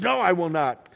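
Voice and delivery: acted-out loud refusal; defiant refusal. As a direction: refuse the order firmly. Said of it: "who was told to go".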